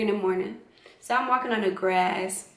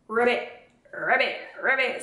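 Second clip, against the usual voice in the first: frog croak. Retold or imitated. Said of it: "these fat frogs".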